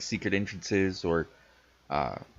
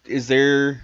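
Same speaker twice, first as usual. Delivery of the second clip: lightly voiced little rat; a hint of a small rat asking; 4 semitones higher, slower than usual. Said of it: "My little rat voice".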